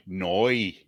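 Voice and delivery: Noi as noy with a clear oi glide; Northern Irish no. Shown as a demonstration. Correcting a friend's try at the Northern Irish no. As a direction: say Noi the Belfast way. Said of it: "So N O Y".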